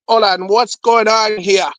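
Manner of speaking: lightly voiced Jamaican nurse, slow; slow, questioning Jamaican accent. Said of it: "This Jamaican nurse coming here".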